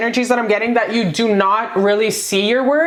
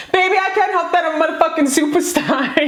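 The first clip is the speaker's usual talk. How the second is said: fast, higher sassy boast; quoting Jocelyn Hernandez; 6 semitones higher, faster than usual. Retold or imitated. Reader quotes the catchphrase to viewers, fast and sassy. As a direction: own it like a superstar. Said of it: "that fucking quote in my head".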